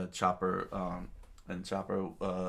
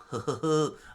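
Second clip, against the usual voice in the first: villain laugh; 7 semitones higher, 4 dB louder than usual. Acted. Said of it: "laughed out loud".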